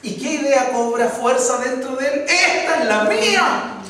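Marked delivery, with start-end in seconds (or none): 2.3-3.8 eager inner thought. Acted. Blind man's inner thought.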